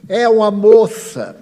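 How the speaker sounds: loud, slow, high yell from across the room; retold shout. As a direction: shout it out from the doorway. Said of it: "o senhor de lá gritou".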